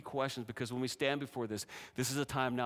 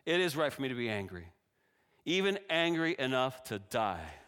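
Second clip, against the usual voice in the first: angry retort; 4 dB louder than usual. Acted. Jonah snaps back defiantly at God. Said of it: "Jonah retorted".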